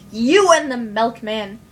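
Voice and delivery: mock screaming. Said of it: "he kept on screaming".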